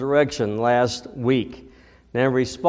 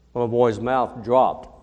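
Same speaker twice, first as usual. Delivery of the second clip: plain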